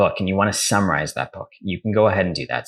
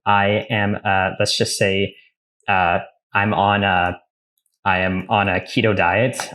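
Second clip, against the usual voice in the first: slow dictation; slower than usual. Shown as a demonstration. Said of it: "So for example".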